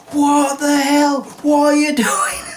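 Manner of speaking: high, drawn-out startled yell of a rudely woken man; startled shout. Retold or imitated. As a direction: shriek it as if you've just been soaked awake. Dad woken by wet sponge.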